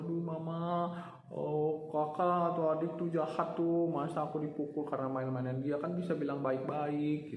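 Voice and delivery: tattle to mom with a whine; whiny child. Retold or imitated. Hit child complains to mom.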